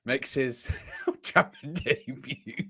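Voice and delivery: hushed, drawn-out commentator impression; Peter Jury. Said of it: "imagine Peter Jury as well going".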